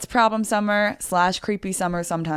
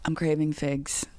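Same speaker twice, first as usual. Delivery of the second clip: imitating Shane; 6 dB quieter, slower than usual. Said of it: "Let me do an impression".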